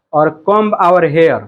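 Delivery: slow, drawn-out phrase; slow sing-song. Shown as a demonstration. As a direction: sing the new line slowly. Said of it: "एक word हमको मिला है". (धीरे-धीरे गाकर)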